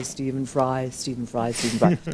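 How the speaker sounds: low, steady repeated mantra; self-calming mantra. Shown as a demonstration. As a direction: repeat it low to calm yourself down. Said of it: "to calm myself down".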